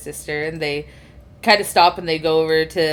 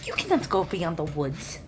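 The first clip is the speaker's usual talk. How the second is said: alarmed sister; 5 dB quieter than usual. Acted. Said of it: "Cassia look at you and go".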